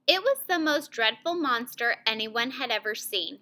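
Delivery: serious, slightly hushed story reading; understated dread in the storytelling; serious mood. Shown as a demonstration. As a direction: read it gravely, matching a scary scene. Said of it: "make my voice match that feeling".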